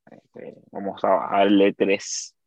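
slow, paced-out delivery; slow it right down for clarity. Acted. YouTuber slowing down so any viewer understands, measured speech. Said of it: "hablar un poco más pausado".

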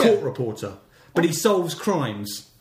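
slow, dramatic trailer announcer pitching a show; hammed-up voiceover for a pretend detective series; mock TV trailer voice. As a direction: sell it like a cheesy crime drama trailer. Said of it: "good idea for a television show".

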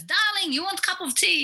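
a hint of a motherly tea lady calling darling; imitating the tea lady. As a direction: chirp it like a cheery tea lady. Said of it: "this thick accent".

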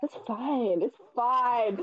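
breathless after laughing; puffing between words; out of breath. Real, not acted. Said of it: "You sound like you're not breathing".

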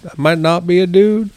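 high, put-on voice for a joke; joking confession. Joking with a friend about walking out, mock high voice. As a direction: pitch up high and play it silly. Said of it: "we were like".

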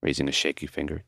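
ordinary delivery

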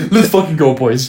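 copying the muffled helmet radio cheer; stuffed-up on-mic driver shout; putting helmet on. Retold or imitated. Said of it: "stuffed up in your mouth on mic".

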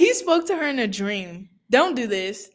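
high-pitched, astonished outburst; real amazement, pitch jumping up; amazed disbelief. Real, not acted. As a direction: exclaim it like you can't believe it. Amazed at friend's dream revelation.

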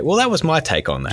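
pitched well up with a rising end; tutorial sign-off voice. Retold or imitated. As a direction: say it like a video outro line. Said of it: "I just say".

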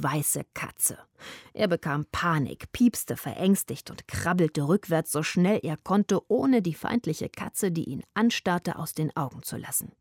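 lebhaftes Vorlesen einer Kindergeschichte; erzähl die Mäusegeschichte den Kindern vor; story narration. A narrator's reading. Liest Kapitel vor. (Vorleseton für Kinder)

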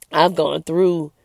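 slow, halting words as emotion rises; real emotion welling up, words dragged out; emotional. Real, not acted. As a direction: let the feeling slow you right down. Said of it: "I'm getting a little emotional".

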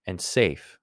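"safe" landed firmly after a beat; stress on "safe". Real, not acted. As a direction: lean on "safe" after a short pause. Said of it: "emphasis on the word safe".

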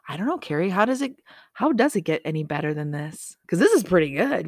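bright, playful self-answer; sing-song happy reply; cheery answering voice. Shown as a demonstration. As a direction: answer yourself with delight. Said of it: "Say it out loud".

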